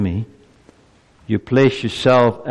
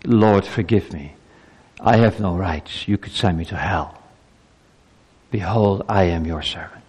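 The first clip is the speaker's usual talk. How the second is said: humble prayer; 3 semitones lower than usual. Acted. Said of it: "When we say to God".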